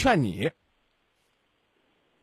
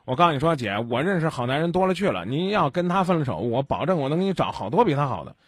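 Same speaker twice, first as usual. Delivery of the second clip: meddling sneer; 3 semitones lower than usual. Retold or imitated. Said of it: "先跟你媳妇儿说".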